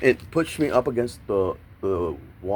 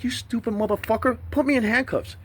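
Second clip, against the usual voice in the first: retold insult; 13 semitones higher than usual. Retold cursing at officer.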